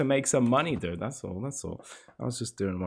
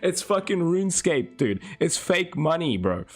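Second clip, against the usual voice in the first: heated defense; 4 semitones higher than usual. Real, not acted. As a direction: push back hard at chat. Defending himself to chat.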